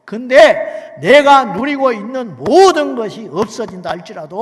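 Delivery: loud, slow fervent build; preaching shout. Acted. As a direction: belt it slowly with fervor. Preaching climax.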